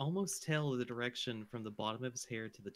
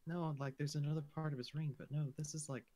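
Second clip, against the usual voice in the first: soft, hushed and concerned; hushed deference; 7 dB quieter than usual. Real, not acted. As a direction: murmur it carefully, deferring. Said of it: "You sound so hushed. Very concerned".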